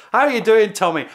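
German soldiers calling out cheerily; mock shouted greeting. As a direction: shout the question over to the British. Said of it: "So you've got lots of people say".

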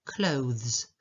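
"clothes" with full OH, then voiced th into z; clear th-z ending. Shown as a demonstration. Teacher showing a tricky word, "clothes", with careful th-z. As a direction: sound out the th and z in "clothes". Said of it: "może wyzwanie dla".

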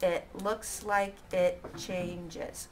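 slow counting read-back; slow syllable count. Shown as a demonstration.

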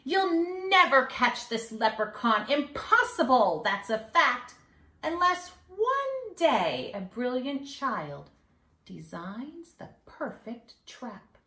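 put-on sing-song rhyme for kids; mischievous leprechaun. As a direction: read it like a cheeky little leprechaun bragging. Leprechaun final boast.

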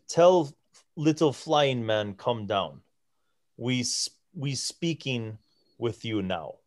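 lightly voiced giant in halting pidgin; a hint of a giant giving simple orders; broken Common. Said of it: "in broken common".

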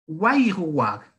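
"Wairuwag" drawn out slowly, each syllable clear; Zapotec word said slowly. Shown as a demonstration. Teacher models "Wairuwag" slowly for students.

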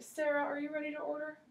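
waiter role. Pretend. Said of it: "ask you some of the server questions".

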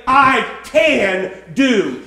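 CAN DO slow and drawn out; weighty, emphatic "can do". Acted. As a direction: declare "I can do" with each word stretched. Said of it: "Paul could say so emphatically".

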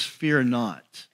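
low, gently hushed reassurance; softly spoken divine comfort; encouraging God's voice. Retold or imitated. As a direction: drop low and soft to reassure. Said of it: "God's voice encourages".

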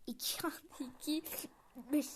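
whispered math question breaking into a laugh; giggling whisper. Pretend. Playing teacher to viewers, giggly whisper. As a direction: whisper it and crack up halfway. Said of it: "Ya ben öğretmenim".

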